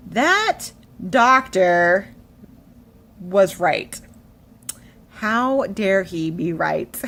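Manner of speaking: drawn-out, emphatic mock indignation; annoyed disbelief. Patient admitting the doctor was right, mock annoyed. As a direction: begrudge every word of the admission. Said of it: "I was so annoyed with myself".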